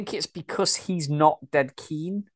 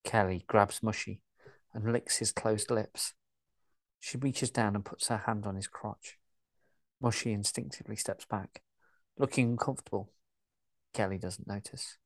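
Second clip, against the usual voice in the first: even, steady story narration; calm audio-drama narrator; scene narration; 3 semitones lower, 6 dB quieter than usual. A narrator's reading. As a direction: read the stage directions like a narrator.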